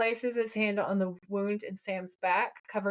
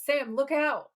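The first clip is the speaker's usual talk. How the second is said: Dean's warning; 6 semitones higher, slower than usual. Retold or imitated. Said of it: "Dean says".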